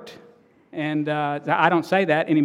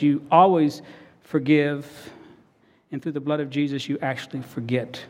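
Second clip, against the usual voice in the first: earnest pastoral prayer voice; closing prayer. Real, not acted. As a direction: pray it sincerely to the Father.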